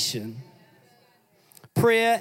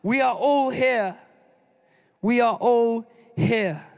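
raised higher, urgent call; pitched up urgent cry across the prison; Paul shouting; 5 semitones higher than usual. A narrator's reading. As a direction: call out to stop the jailer. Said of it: "But Paul shouted".

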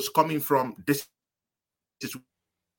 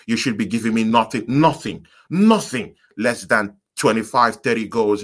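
loud rant; 3 semitones lower, 6 dB louder than usual. Real, not acted. Ranting about overpaid striker.

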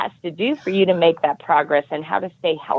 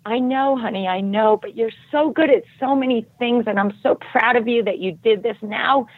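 a lightly voiced, higher comforting mother; soothing mom; 4 semitones higher than usual. Mother comforting her sobbing daughter, lightly higher and tender. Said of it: "she's like".

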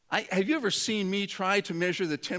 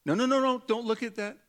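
quick, higher-pitched caution; head someone off before they stray; mock-alarmed redirecting; urgent warning; 4 semitones higher than usual. Acting Jesus warning the wanderer.

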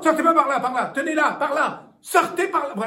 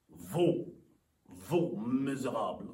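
angry; 10 dB quieter, slower than usual. Acted. Jealous husband accuses.

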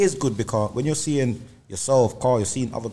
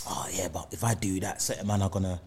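hushed, hesitant; 3 semitones lower, 6 dB quieter than usual. Retold or imitated. Voicing an insecure friend's doubts.

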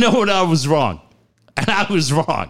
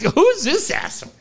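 mock broadcasters; 10 semitones higher than usual. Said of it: "They're like".

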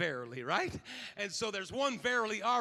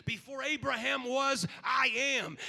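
louder, commanding proclamation; authoritative declaration; 3 semitones higher, 6 dB louder than usual. Shown as a demonstration. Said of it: "is authoritative".

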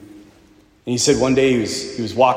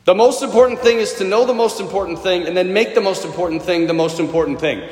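the line in one unbroken run; quick recap in a single breath; quick run-through; 3 semitones higher than usual. Shown as a demonstration. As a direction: rattle it off without pausing. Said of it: "repeats the line in one breath".

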